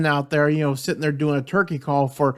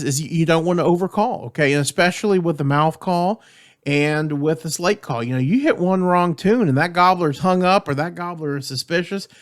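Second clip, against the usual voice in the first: normal talking voice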